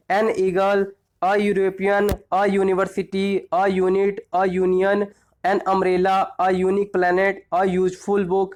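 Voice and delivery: measured read-through of the word list; teacher running through examples for recall. Shown as a demonstration. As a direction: read each item out clearly, one at a time.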